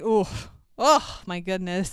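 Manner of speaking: overwrought theatrical gasp; drama queen. Retold or imitated. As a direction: gasp it like a hammy old actor. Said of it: "Anthony Hopkins has got some deliveries".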